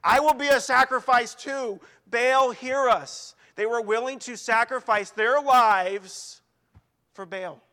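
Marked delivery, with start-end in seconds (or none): 0.0-3.4 desperate plea. Retold or imitated. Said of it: "they were almost trying to say".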